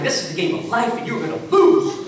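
gloating jump up on the last words; hammed-up trash talk over a video game; mock taunting. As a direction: tease the kid you're beating. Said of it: "So I'm like".

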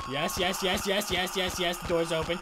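rapid string of eager yeses; real, rising excitement; excited relief. Real, not acted. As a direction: chant yes as success arrives. Door finally opens.

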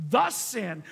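"The" as a punched "thuh"; stress on THE. Shown as a demonstration. Preacher singling out a particular sin, stress on "The". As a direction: hit "The" hard to mark one particular sin. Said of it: "a particular sin".

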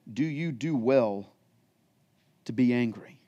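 measured, solemn Bible reading; scripture reading. Acted. Pastor reading scripture to the church, solemn and measured. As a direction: read the passage to the congregation with weight. Reads Jonah chapter four aloud.

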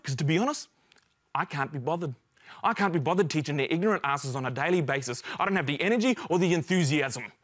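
low, subdued and worn out; resigned, low-pitched admission; acted weariness. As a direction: let the energy drop, as if too tired to bother. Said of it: "It's exhausting".

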